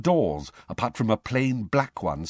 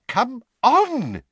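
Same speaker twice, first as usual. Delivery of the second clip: high, louder impatient cry; impatient shout; 5 dB louder than usual. A narrator's reading. Mr Weasley urging the slow lift, high and impatient. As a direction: jab at the lift and snap.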